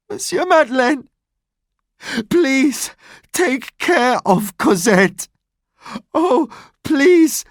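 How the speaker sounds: high, pleading cry. Acted. Dying Fantine begs Madeleine, high pleading cry. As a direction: beg him desperately with the last strength. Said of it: "Fantine cried out".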